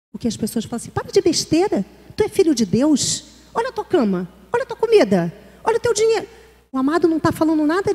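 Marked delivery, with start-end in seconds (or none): 0.9-6.3 dismissive scolding. Acted. Dismissive reply to someone suffering.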